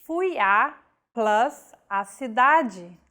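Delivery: Fui a plus a cidade, each a kept separate; Portuguese example sentence; spelled-out crasis. Shown as a demonstration. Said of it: "contraction of a feminine article with a preposition".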